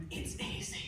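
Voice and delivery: soft unvoiced whisper; dad coaxing his son at the pig. Dad whispers in son's ear, softly unvoiced. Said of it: "Dad just whispers in my ear".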